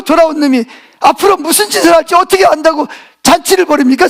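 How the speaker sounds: high, aggrieved complaint to father; older son protesting the feast to his father; indignant protest. Retold or imitated. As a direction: argue it as a wronged son.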